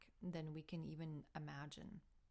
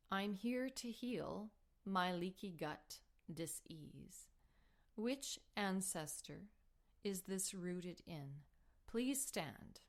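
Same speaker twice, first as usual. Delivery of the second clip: slow, solemn calling of the ancestors; slow, deliberate invocation spoken inside the meditation; ritual invocation; slower than usual. Retold or imitated. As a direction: state it slowly, like a ritual. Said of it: "or you state".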